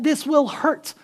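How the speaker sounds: mock threat. Jesus threatening the money changers, loud and slow. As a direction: growl it like a real threat. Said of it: "He is yelling".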